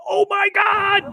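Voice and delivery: shocked gasp. Retold or imitated. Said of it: "they're both in that instant going".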